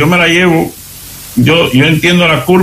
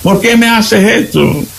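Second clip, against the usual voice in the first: mock yelling husband; 9 semitones higher than usual. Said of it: "empieza a dar gritos".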